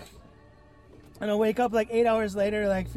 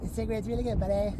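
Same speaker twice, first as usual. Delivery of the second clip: lightly hammed Canadian accent; smug mock-Canadian buddy voice; Canadian scientist; faster than usual. Canadian scientist with a cigarette after the study, mock Canadian accent. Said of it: "Canadian scientist".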